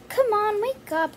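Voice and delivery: put-on brisk mom nudging a sleepy kid awake; mom waking child. Mom doll urges the lazy kid to wake up, brisk nudge. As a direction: come on, get up now, lightly pushy. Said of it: "Don't be that lazy".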